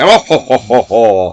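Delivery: light villainous oh-ho-ho laugh; evil cackle. Retold or imitated. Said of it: "she often cackles".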